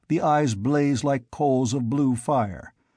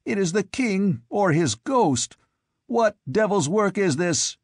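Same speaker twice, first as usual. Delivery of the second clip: disbelieving fear; 7 semitones higher than usual. A narrator's reading. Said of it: "like a man who doubts his own senses".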